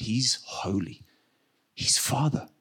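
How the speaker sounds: breathless whisper of awe. Real, not acted. Pastor whispering to the congregation about God being holy. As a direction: say it on a reverent whisper.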